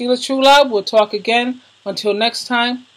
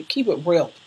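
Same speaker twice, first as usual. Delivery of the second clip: usual speaking voice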